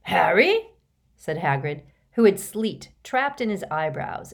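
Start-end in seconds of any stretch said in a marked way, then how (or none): 0.0-0.7 loud questioning call, rising sharply; surprised. A narrator's reading. Hagrid on meeting Harry in the lane, surprised. Giant friend answers in surprise.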